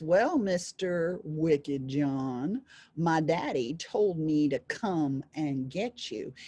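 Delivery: drawn-out first words, a hint of menace; young devil's warning.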